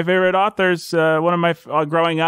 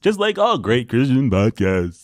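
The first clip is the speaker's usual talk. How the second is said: deep voice; 5 semitones lower than usual. Pretend. Keeps up the mock deep voice.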